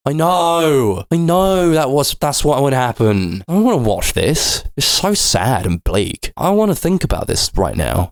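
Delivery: mock whine. Bored viewer groaning at the bleak movie, high mock whine. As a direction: beg to stop watching, half-joking. Mock complaint while watching film.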